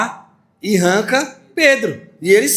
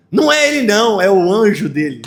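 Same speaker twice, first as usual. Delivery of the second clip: higher, louder group verdict; crowd's insistence; 4 semitones higher, 3 dB louder than usual. Acted. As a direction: declare it together. Crowd answers together.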